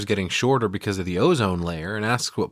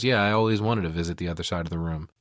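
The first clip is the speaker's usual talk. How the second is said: deadpan sarcasm; 4 semitones lower than usual. Retold or imitated. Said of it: "And he goes".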